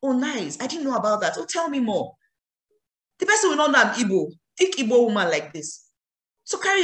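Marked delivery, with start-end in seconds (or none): 0.0-2.1 polished talk. Shown as a demonstration. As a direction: sound refined and interested. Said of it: "the way I'll be talking".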